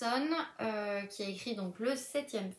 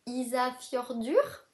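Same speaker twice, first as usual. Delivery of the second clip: Ísafjörður said slowly with an Icelandic accent, a bit louder; 2 semitones higher, 4 dB louder, slower than usual. Shown as a demonstration. Teasing her viewers, she pronounces the town with an Icelandic accent. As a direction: carefully sound out Ísafjörður the Icelandic way. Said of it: "avec mon accent islandais".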